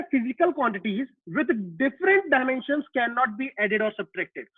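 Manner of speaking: each word drawn out slowly for notes; slow dictation. Shown as a demonstration. Teacher dictating a rule.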